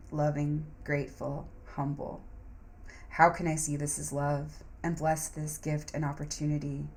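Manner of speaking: meditative mantra recitation; guided affirmations. Acted. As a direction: lead yourself through mantras calmly.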